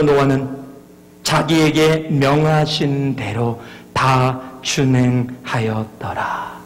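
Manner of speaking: solemn scripture reading. Acted. 성경 구절을 낭독.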